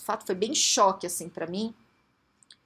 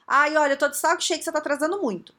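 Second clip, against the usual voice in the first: raised-pitch, exasperated complaint; higher, louder mock grumbling; wrong-way feedback; 5 semitones higher, 4 dB louder than usual. Shown as a demonstration. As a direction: act out a fed-up accusation. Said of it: "o jeito errado de dar o feedback?".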